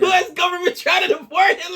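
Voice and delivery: high excited near-shout of amazement; excited outburst. Real, not acted. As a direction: blurt it out in disbelief. Stunned by news of a singer's deportation.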